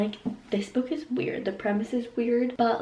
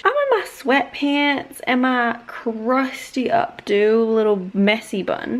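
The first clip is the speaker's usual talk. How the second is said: loud, emphatic venting; playful rant; 6 dB louder than usual. Real, not acted. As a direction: rant loudly about it, leaning on key words. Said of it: "not gonna go on a rant".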